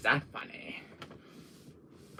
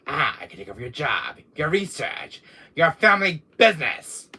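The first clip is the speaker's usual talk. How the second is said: lightly acted menacing soldier, building louder; Krauser; 5 semitones higher, 8 dB louder than usual. Rival threatening to take over Wesker's work, lightly menacing. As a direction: let the threat rise towards the end. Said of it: "No, I'm impersonating Krauser".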